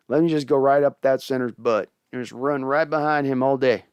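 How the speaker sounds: a light Southern accent imitating the coach. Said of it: "Carroll gets a Southern accent".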